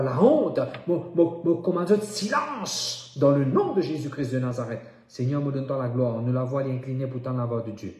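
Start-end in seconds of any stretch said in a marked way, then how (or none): 0.0-4.8 raised, building prayer command; commanding rebuke. Real, not acted. Preacher silencing voices of shame, commanding fervently. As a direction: order silence with sudden high bursts.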